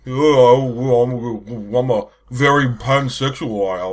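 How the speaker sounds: mock Welsh lilt, slow and drawn out; Welsh accent. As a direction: lampoon a Welsh speaker slowly. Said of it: "He's gonna talk in that Welsh accent".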